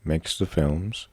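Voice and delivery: slow, deliberate syllables; close-mic enunciation. Shown as a demonstration. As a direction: speak right into the mic, slowly. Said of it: "I am speaking close to the mic".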